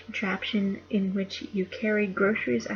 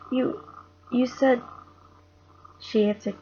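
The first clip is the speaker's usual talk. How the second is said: put-on reading a children's book aloud, a bit louder; story reading; 4 dB louder than usual. A narrator's reading. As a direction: read it like a bedtime chapter to the household. Reads Narnia to family.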